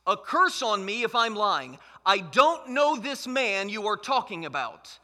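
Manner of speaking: forceful, drawn-out denial; emphatic oath. Acted. Peter denies Jesus to bystanders, emphatic sworn denial. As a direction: swear it emphatically, slowing on the denial. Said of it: "Peter swears".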